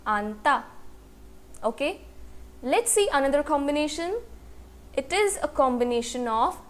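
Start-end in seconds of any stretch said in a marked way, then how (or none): 0.1-0.6 आंता split as low आन, then ता; pronunciation demo. Shown as a demonstration. Teacher answers how the word is pronounced, sounding out आंता by syllable. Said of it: "इस word का pronunciation क्या हुआ".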